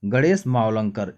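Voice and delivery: slow teacher repeat of "Ganesh Mavalankar". Shown as a demonstration. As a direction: drill the answer home slowly. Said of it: "कौन?".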